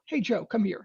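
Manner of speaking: put-on calling a kid, not angry. Shown as a demonstration. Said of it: "It's the same tonality".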